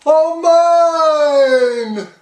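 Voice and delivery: high, loud delighted exclamation; excited cry. A narrator's reading. Turtle king thrilled by his view, crying out high. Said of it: "Yertle cried".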